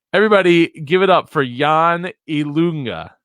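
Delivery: loud, high announcer welcome; hype introduction. Real, not acted. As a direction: pump up the crowd for the guest. Host introducing guest loudly.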